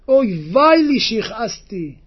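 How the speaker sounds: imitated cry of remorse; acted lament. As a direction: lament it as the retold sufferer. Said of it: "הוא התחיל לצעוק".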